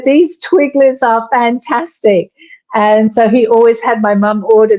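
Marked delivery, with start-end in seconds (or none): 0.0-2.3 higher, slow put-on Tommy voice; imitating Tommy. Wife retelling Tommy's first taste of Twiglets, higher and slowed. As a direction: lift and stretch it like Tommy raving.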